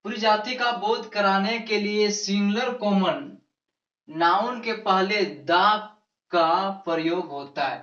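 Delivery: slow, with pauses between phrases; slow rule dictation. Real, not acted. Teacher giving the class a grammar rule, slow dictation. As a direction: dictate it piece by piece, unhurried.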